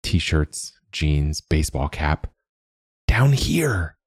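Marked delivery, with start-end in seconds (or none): 3.1-4.0 high small call from below; calling bird voice. A narrator's reading. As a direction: call up from under the bed. Hidden bird calls out.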